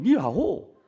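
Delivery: mock Chinese with swooping tones; lightly imitated Mandarin greeting. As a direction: imitate a Chinese hello, pitch rising and falling. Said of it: "중국말로".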